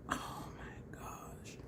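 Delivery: slow, whispered amazement; barely-there excited whisper; awed whisper. Real, not acted. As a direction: whisper it, stunned and drawn out. Overcome by a new look idea.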